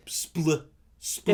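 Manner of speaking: cut-off, wet "spl" noise; wet splat sound. Shown as a demonstration. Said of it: "but it's wet".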